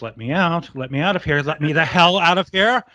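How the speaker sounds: high, frantic pleading yell; hammed-up locked-in panic ending in a cry; panicked yelling. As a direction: beg and rage to be let out. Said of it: "and he goes".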